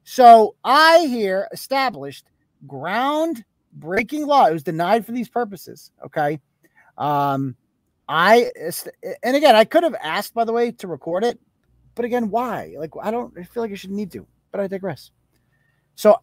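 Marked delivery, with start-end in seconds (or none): 0.0-4.5 mock grandiose. Real, not acted. Boasting, slowed grandly. 10.3-15.1 muttering. Real, not acted. Trailing off dismissively.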